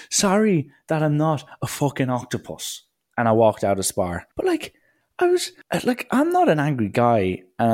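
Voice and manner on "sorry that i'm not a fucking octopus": sarcastic retort. Retold or imitated. Snapping back at impatient customer.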